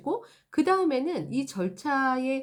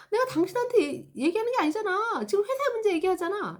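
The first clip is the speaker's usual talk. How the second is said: much higher pleading protest; frustrated customer; 9 semitones higher than usual. Acted. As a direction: insist it's not personal. (답답한 고객의 높은 항변)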